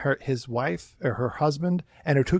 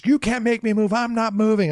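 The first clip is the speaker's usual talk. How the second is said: much higher mock whining refusal; defiant guest; 7 semitones higher than usual. Guest defying manager at parade, high whining refusal. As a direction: dig in like a sulky child. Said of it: "and she's".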